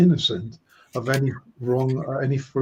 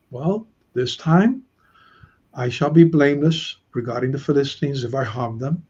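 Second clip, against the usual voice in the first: calm, mellow, confident. Shown as a demonstration. Teacher demonstrating how Samson might have said it, calm and mellow. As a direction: say it calmly and with easy confidence. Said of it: "said it in a very calm, mellow, confident way".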